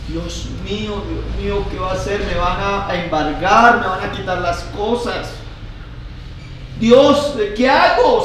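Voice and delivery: hint of desperate praying; despairing believer. Believer facing debts pleads with God, mildly desperate. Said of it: "Y llegamos y decimos aquí así".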